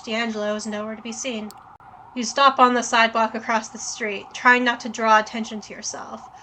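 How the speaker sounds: even game-text read; story narration. A narrator's reading. Reads the game text aloud.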